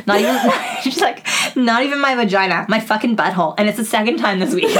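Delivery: outraged coworker quote. Retold or imitated. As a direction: relay the quote in a hammed-up indignant voice.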